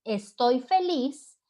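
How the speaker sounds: exclamación lenta, levemente entonada; entónalo despacio, con un toque de alegría; exclamación feliz. Shown as a demonstration. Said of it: "o entonar". (exclamación alegre suave)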